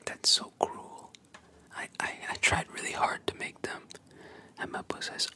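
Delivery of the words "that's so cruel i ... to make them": pushed, louder whisper with a touch of tears; mock crying whisper. Little girl over her ruined rice balls, whispered mock crying. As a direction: play a hurt child crying, still whispered. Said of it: "The poor girl is crying now".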